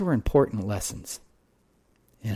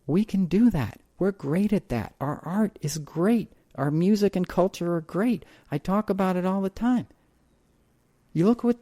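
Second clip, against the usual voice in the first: raised, impassioned pitch rising up; passionate; 9 semitones higher than usual. Real, not acted. Speaker praising American culture with rising passion. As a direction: sell it like a rallying cry.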